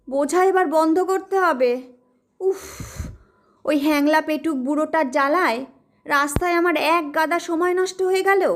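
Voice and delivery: put-on sulking about the greedy old man; grumbling young man.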